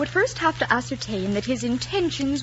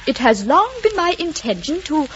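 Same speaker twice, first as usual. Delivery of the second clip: lifted, slightly louder model line; formal suitor's opening, lightly acted; prompting demonstration; 4 semitones higher, 5 dB louder than usual. Shown as a demonstration. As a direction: show him how the proposal begins. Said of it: "How does it begin again?".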